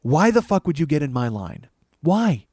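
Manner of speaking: loud, high mock tirade; furious mock rant; shouted rant. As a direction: yell it at him, outraged. Ranting at the man in line.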